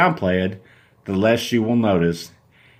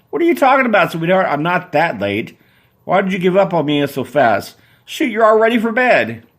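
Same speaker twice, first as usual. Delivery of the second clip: put-on confused boyfriend; 7 semitones higher than usual.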